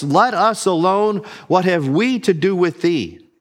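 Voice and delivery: a mild voiced demon outcry; mock demon scream. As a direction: lift the pitch to mimic a screaming demon. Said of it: "he screams in a loud voice".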